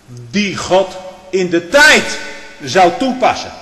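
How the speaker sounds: slow, forceful declaration; emphatic preaching. Real, not acted. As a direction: hammer the point home from the pulpit. Preacher hammers a doctrinal point.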